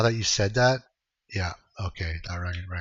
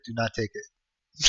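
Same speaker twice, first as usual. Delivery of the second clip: slow, deliberate do not take it; slowed-down earnest caution; slow emphatic warning; 7 dB quieter, slower than usual. Real, not acted. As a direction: lean on each word as a firm warning. Warning friend against loans.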